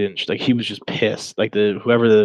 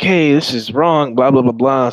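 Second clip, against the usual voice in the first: mock objection; 3 semitones higher, 7 dB louder than usual. Mock voice of imagined decoy objection.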